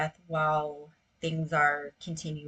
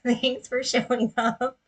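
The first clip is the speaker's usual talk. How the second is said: higher, louder, laughed-out thanks; laughing; 6 semitones higher, 5 dB louder than usual. Real, not acted. Meditation host thanks the inner critic, laughing. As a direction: thank them through a laugh.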